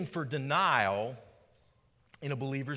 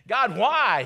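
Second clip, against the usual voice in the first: retold plea; 7 semitones higher, 11 dB louder than usual. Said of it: "He pleaded, he begged".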